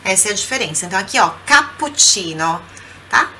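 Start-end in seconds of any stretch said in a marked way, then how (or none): 1.4-2.6 cappuccino with the doubled C said a bit stronger; strong double C. Shown as a demonstration. Teacher showing the double C in cappuccino, strong. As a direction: lean on the CC in cappuccino. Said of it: "Dois sonzinhos mais fortes".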